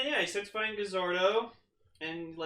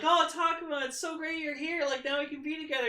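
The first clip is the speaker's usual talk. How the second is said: higher, lightly voiced hopeful girl; imitating Mayumi; 11 semitones higher than usual. Recapping an episode, voicing Mayumi to her lost love, higher and hopeful. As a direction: play her happy and hopeful, in a raised voice. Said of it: "Mayumi being like".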